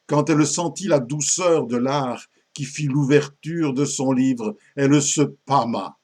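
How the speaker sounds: lively verse narration, emphatic phrasing; récitation de poème grivois. A narrator's reading. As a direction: tell the naughty tale in theatrical verse. (récit en vers, vif et appuyé)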